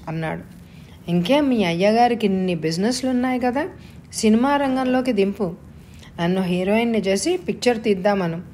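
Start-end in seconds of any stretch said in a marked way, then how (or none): 1.1-8.4 mock him with a sharp edge; wife needling her husband, a touch of anger; angry, spiteful. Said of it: "కోపంతో, కసితో అంది".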